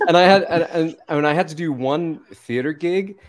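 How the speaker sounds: easy conversational American accent; chatting in an American accent. Shown as a demonstration. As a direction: keep up a put-on American voice. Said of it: "What's your American sound like".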